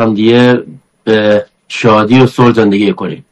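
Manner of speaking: Bakhtiari accent, unhurried. Shown as a demonstration. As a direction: speak it in broad Bakhtiari accent. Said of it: "به لهجهٔ بختیاری هر جور دوست داری صحبت بکن".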